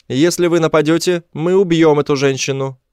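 high-pitched creature threat; high alien hostage-taker. A narrator's reading. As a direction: lay down a warning in a high alien voice.

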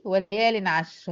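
slow measured Quran recitation; Quranic recitation. Shown as a demonstration. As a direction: recite the verse slowly, as from the mushaf. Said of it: "لو هتشوفي تذكرة في المصحف".

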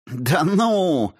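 high, scornful mock disbelief; mocking scoff. A narrator's reading. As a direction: scoff in his face. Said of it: "оскорбительно рассмеялась".

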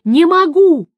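high, loud cry of refusal; desperate cry. A narrator's reading. Hanging sorceress cries to the witcher, loud and high. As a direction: cry it out, near panic.

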